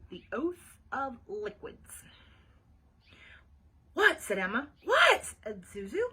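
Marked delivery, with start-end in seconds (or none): 3.9-4.2 quick startled question; a short, baffled what; surprised. A narrator's reading. Emma reacts to Ivy, surprised. Friend reacts to puzzling remark. 4.8-5.2 high, loud startled question; surprised. A narrator's reading. Zuzu echoes Emma's question, surprised.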